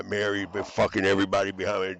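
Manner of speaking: shouting out an accusation in anger; angry shout. Real, not acted. Ranting at people he blames, loud angry shout. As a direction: hurl it out loud and furious. Furious rant at unseen enemies.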